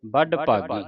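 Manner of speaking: ਬੜ ਭਾਗੀ with a clear b and retroflex flap in ਬੜ; b and hard d sounded. Shown as a demonstration. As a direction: sound out both consonants of ਬੜ. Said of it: "ਬੱਬਾ ਤੇ ਡੱਡੇ ਦੀ ਆਵਾਜ਼".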